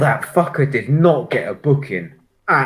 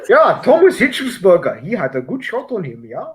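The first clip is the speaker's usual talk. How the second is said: mock German accent; 3 semitones higher, 3 dB louder than usual. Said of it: "This is how Dennis thinks you talk".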